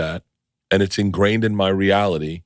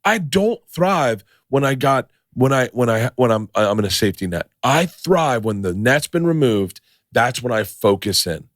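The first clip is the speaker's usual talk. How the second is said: mock pep talk to himself, pitched up; higher-pitched, insistent self-convincing; shut-off self-belief; 4 semitones higher than usual. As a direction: re-enact psyching yourself up, higher than usual. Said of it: "I shut off and was like".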